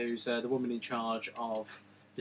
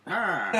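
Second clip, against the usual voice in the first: raised, open "ah" outburst; a brief mock wail, pitched up; mock cry; 5 semitones higher than usual. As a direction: imitate a helpless cry. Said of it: "stood there and gone".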